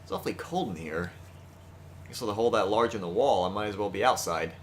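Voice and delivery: lightly voiced, low aloof aristocrat; a hint of a cold, haughty lord; haughty noble voice. Reads Sakuya's lines in character.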